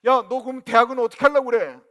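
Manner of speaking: loud, high scolding question; exasperated dad. Retold or imitated. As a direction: demand an answer like a fed-up father. Father scolds son in retold talk.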